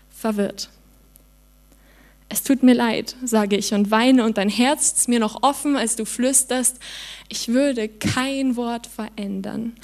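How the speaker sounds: slow, melancholic spoken-word delivery with long pauses; poetry slam recital. Acted. Performer reading her poem to the audience, melancholic. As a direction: let each line land like a diary entry.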